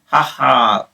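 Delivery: short mocking "ha ha" laugh; mild villain laugh. A narrator's reading. Hook gloating over the prisoners, a mild villain laugh. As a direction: give a small gloating pirate laugh. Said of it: "laughed Hook".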